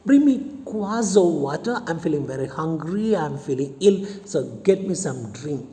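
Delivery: demanding shout. Acted. Master orders servant angrily.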